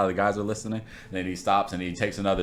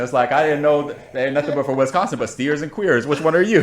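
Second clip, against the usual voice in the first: drill sergeant; 5 semitones higher than usual. Retold or imitated. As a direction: bark like a drill sergeant at a recruit. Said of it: "All from Full Metal Jacket".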